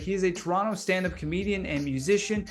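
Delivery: announcer-style show intro; host intro. Acted.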